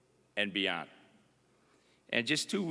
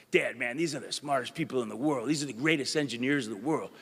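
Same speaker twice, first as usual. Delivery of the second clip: giddy son; faster than usual. Retold or imitated. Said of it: "he's just giddy".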